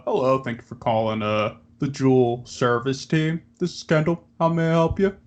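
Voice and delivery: polite and chipper, like answering a call; customer service voice. Pretend. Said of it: "customer service voice".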